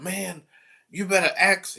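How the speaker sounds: student defying the teacher, high indignant voice; defiant student. Retold or imitated. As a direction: imitate a defiant teen. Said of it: "he like".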